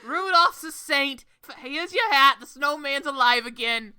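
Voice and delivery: loud, hammy Irish cop drifting into the Bronx; not-quite-Irish stage cop accent; botched Irish cop accent. Acted. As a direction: attempt an Irish policeman and miss badly. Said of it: "this accent's amazing".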